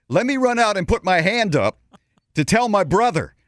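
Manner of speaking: urgent plea. Retold or imitated. Urgent plea to staff, retold.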